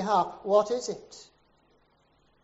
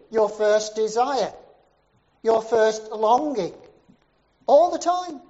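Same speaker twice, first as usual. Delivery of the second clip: building louder to a high cry on all the time; rising preaching fervor; 3 semitones higher, 6 dB louder than usual. Retold or imitated. Preacher pressing the congregation, climbing to a loud peak. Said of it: "And he said".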